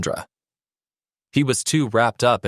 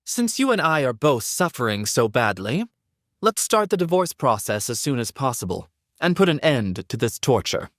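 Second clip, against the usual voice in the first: sarcastic; 5 semitones higher than usual. Acted. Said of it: "Sandra replied sarcastically".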